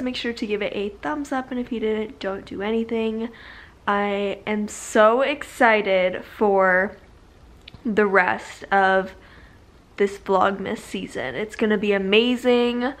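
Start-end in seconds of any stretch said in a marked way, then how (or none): 3.9-12.9 talking with retainers in; wearing a retainer. Real, not acted. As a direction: speak around a retainer. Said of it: "Also, I've got my retainers in".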